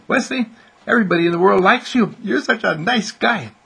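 high, loud inner cheerleader; enthusiastic praise. Acted. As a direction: gush encouragement, pitched high.

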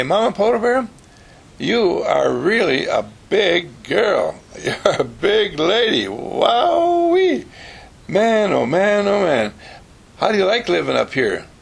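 high, loud, wide-eyed admiration; excited child. Retold or imitated. Child gushes up at the huge mama bear, loud and excited. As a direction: gush at her like an amazed kid.

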